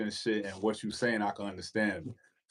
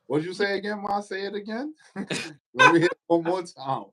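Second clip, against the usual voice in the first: flirty tease; 9 semitones higher than usual. Pretend. Teasing, asks her to repeat.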